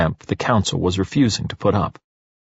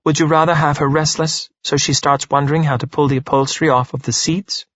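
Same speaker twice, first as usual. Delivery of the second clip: calm reply in a higher character voice; unruffled, higher-voiced retort; 5 semitones higher than usual. A narrator's reading. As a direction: counter evenly, pitched up. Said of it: "Parvana says calmly".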